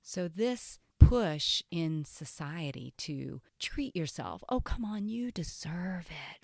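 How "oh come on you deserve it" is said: coaxing. Acted. Society nudging you to treat yourself, coaxing. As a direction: tempt them into a treat.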